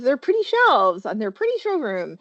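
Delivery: each pretty leaned on a little; stress on pretty. Shown as a demonstration. Mocking the shop's pretty ladder to the class, stressing pretty. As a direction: give every pretty a wry little push. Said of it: "Emphasis on the word pretty".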